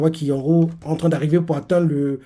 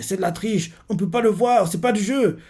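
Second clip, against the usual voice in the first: frustrée; 5 semitones higher than usual. Retold or imitated. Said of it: "frappe le sol de frustration".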